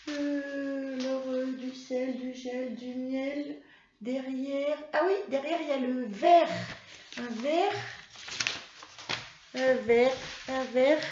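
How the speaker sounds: put-on a child puppet thinking aloud; Mimi puppet voice. Puppet Mimi answering teacher, lightly high childlike voice.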